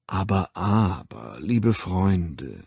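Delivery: a soothing voice calming a rioting crowd; tenderly reproachful. Acted. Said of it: "so herzergreifenden Ton ... zärtlich vorwurfsvollen".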